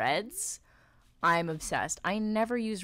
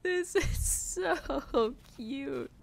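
much higher, slow stretched squeal of joy; squealing delight; 14 semitones higher, much slower than usual. Real, not acted. Streamer squealing at a tiny train in a player's build, much higher and slow.

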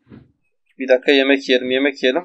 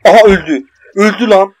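triumphant cry; 4 semitones higher, 5 dB louder than usual. Real, not acted. Boss finally killed.

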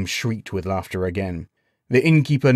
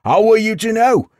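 high, loud, incredulous cry; howling; 13 semitones higher, 8 dB louder than usual. A narrator's reading. Villager howls at the knight's excuse, mocking. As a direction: howl it back in mocking disbelief. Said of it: "as he howled".

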